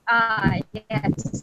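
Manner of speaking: low, unimpressed dad; a light imitation of a dad humoring a joke; dad's flat reply. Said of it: "the exact same intonation".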